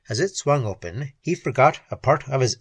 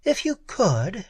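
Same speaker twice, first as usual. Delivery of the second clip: slow, raised cool retort; a hint of cool disdain; 8 semitones higher than usual. A narrator's reading. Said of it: "she retorted coolly".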